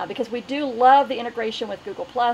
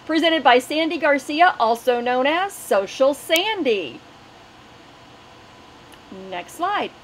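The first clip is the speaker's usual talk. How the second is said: webinar host announcement. Acted. Host welcoming sellers to the webinar and reading sponsors, bright announcer read. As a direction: read the housekeeping like a cheerful announcer.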